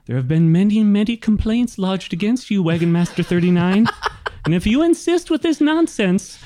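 put-on high-pitched, officious gnome girl; exasperated apprentice. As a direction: scold the wagon master in a high, insistent voice. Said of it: "gives him a very exasperated look".

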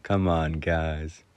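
understated mock reproach; dry humor. Retelling how the teacher chided the class, dry humor. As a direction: dryly imitate a disappointed teacher. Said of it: "in the driest sense of humor".

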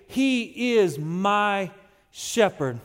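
slow, drawn-out words with a pause before a falling "shepherd"; slow confident declaration. Shown as a demonstration. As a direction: model saying it with confidence. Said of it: "say those words with confidence".

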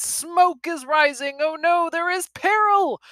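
high, loud mock-dramatic peril; mock alarm. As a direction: play up the danger in a high voice. Mock alarm at book cover.

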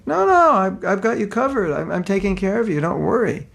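Krishna reassuring. Retold or imitated. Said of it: "And Krishna's saying".

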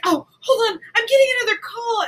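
high, hurried and dismissive; mock rich customer. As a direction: brush off the cashier quickly, up high.

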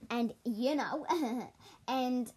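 gasping for air between words; breathless, panting lightly; out of breath. Real, not acted. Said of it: "sorry, I'm out of breath again".

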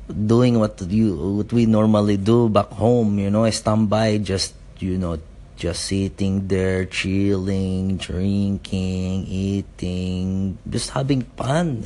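put-on light Filipino accent, easygoing; lightly put-on Filipino accent. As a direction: lilt it like a relaxed Filipino dad. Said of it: "I'll just do it in a Filipino accent".

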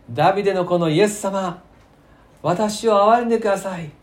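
acted shout of a desperate plea; loud cry for mercy. Blind beggar crying out to Jesus as he passes, loud plea. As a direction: call out loud and high, begging for mercy. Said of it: "大声で".

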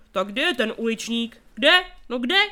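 bellowing where the urchin is, rising to a shout on Kde; loud demand. A narrator's reading. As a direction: push through the crowd and shout. Policeman demands the culprit. (hlasité dožadování, vrchol na „Kde?“)

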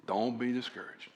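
put-on soft, gentle repeat of an old pastor's advice; quiet encouragement. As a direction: lean in and murmur it kindly. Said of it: "He could tell when I was frustrated".

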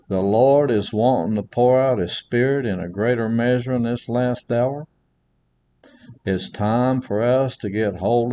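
earnest sermon delivery, rising on key words; preaching. Acted. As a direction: preach it to the congregation with conviction. Preaching to congregation.

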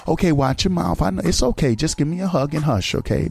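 gentle, hushing mother voice fading to a whisper; mock soothing mother. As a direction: soothe the child like a calm mom, then whisper. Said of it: "Instead of going".

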